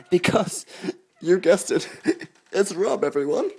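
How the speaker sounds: loud, high, laughing announcement; big reveal. Acted. Host unveiling the next guest with a loud, laughing shout. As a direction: shout the guest's name like a showman.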